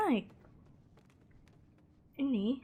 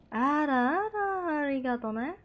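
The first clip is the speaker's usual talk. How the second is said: slow drawn-out; 3 semitones higher, slower than usual. Shown as a demonstration. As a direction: stretch Arah-arah very slowly, then arigato ne. Same phrase drawn out. (pelan dan diseret)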